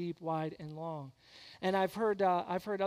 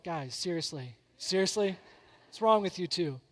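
put-on embarrassed teen daughter; 2 semitones lower than usual. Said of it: "Peyton's like".

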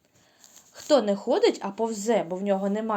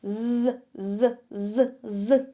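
a long buzzing zzz, like a gnat singing; mosquito buzz; much slower than usual. Shown as a demonstration. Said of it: "комарик співає нам ось таку пісеньку".

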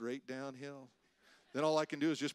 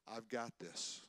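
soft, slightly lowered reassurance; still small voice; 3 semitones lower, 6 dB quieter, slower than usual. Acted. God speaks inwardly to a believer, still and small. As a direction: say it quietly, as God's still small voice. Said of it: "a still small voice".

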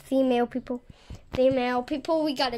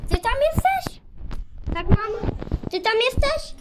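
calling out; 7 semitones higher than usual. Real, not acted. Calling out to mama.

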